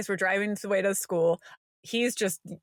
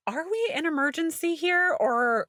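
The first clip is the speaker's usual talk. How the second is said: frantic self-questioning; 3 semitones higher than usual. Retold or imitated. Self-talk quote, frantic questioning.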